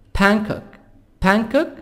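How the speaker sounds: "Bangkok" said "ban-kok"; silent G. Shown as a demonstration. Teacher drilling a city name, "Bangkok" with silent G. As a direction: leave the G of Bangkok unsounded. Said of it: "G silent".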